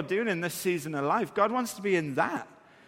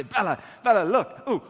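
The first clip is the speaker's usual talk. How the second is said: louder, eager calling out; excited dad game call; 3 semitones higher, 5 dB louder than usual. Retold or imitated. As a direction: call out the pretend animal with glee. Dad pointing out imaginary monkey.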